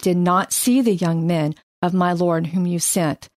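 measured, earnest Bible reading; scripture reading. Acted. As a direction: read Abigail's plea with care. Reads scripture aloud.

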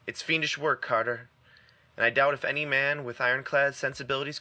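urgent, grave explanation to a friend; earnest warning. Acted. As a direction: plead firmly with a nervous friend. Warren explains the danger to Carter.

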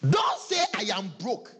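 firm preacher's warning; 1 loud warning. Real, not acted. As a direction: command the crowd. Preacher forbids the excuse.

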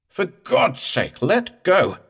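high, drawn-out desperate cry; raw howl. A narrator's reading. Morse begging the corpse to release him, raw howl. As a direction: howl it as a frantic plea. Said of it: "Morse's voice was getting raw. His howl".

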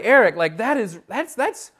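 high-pitched, incredulous objection; mock protest. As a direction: act out a congregant's pleading complaint. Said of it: "you're like".

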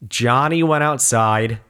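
slow, careful read-aloud; halting read-aloud. Retold or imitated. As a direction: read it out slowly, word by word. Reading aloud for the speech teacher.

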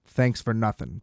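dry sarcastic thanks at normal level. Retold or imitated. His parting shot to the agent, dry sarcasm. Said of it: "I was like".

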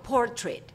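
"portrait" with a short -tret ending; newly learned pronunciation. Shown as a demonstration. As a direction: say "portrait" with the A ignored. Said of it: "captaron como yo".

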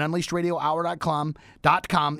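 unleashed radio hour dot com, each word set apart; slow and deliberate. Shown as a demonstration. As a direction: spell out the web address slowly.

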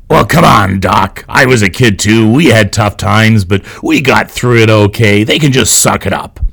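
put-on gruff, dismissive old-timer; grumpy man voice. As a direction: grumble it like a cranky old man. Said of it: "my best grumpy man impression".

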